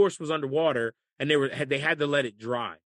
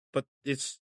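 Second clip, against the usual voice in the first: ordinary delivery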